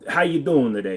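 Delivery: "How you doing" in a light New York accent. Shown as a demonstration. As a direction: greet like a New Yorker. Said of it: "what's the New York sound like?".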